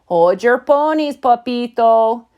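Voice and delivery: loud little-dog declaration; lightly voiced bossy small chihuahua; declaring. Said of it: "declared Poquito Tito".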